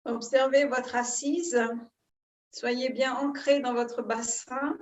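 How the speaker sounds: calm guided breathing, long pauses between phrases; soothing yoga-teacher guidance, phrase by phrase; guided meditation. Real, not acted. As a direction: lead them gently into breath awareness, unhurried.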